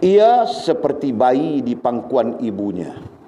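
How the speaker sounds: slow, weighty teaching line; slow emphatic. Shown as a demonstration. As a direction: lay each word down slowly for the class. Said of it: "teacher stresses key phrase". (perlahan dan ditekankan)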